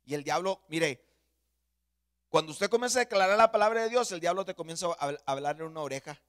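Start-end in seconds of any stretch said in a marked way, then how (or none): 2.3-6.2 raised pulpit voice, easing off at the end; preacher setting up the example; forceful preaching. Acted. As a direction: warn the congregation.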